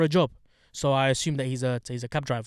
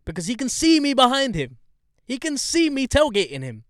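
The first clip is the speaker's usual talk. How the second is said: indignant; 9 semitones higher, 5 dB louder than usual. Real, not acted. Ranting about the crash.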